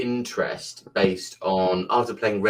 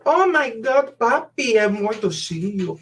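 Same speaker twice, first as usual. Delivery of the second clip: much higher, hammed-up Latino accent; mock Latino accent; 14 semitones higher than usual. Imagined Mexicans greeting one of their own, high mock Latino accent. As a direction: squeal it in a put-on Latino accent. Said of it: "that's not really their accent".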